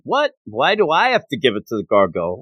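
mock-incredulous protest, pitch jumping at the start; indignant disbelief. Senior officer balking at being handed the gargoyle's message, indignant. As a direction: balk at an unwelcome order. Superior balks at the order.

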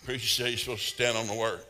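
chuckling through the words; half-laughing as he tells it; laughing at himself; laughing retelling. Retold or imitated. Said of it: "My wife, "What are you doing?".

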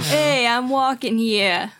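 slow Brooklyn street shout; Brooklyn accent. Retold or imitated. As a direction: bark it like a New York cabbie, Brooklyn accent. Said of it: "you had to do a Brooklyn accent".

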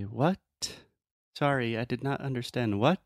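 every final T in "What?" and "what" sharply released; over-articulated T. Shown as a demonstration. Teacher showing how students over-say the T. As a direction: hit each final T crisply, too carefully. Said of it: "It just sounds a little unnatural".

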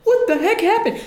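high, laughing; laughing disbelief. Retold or imitated. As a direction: ask it while cracking up. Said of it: "we all went".

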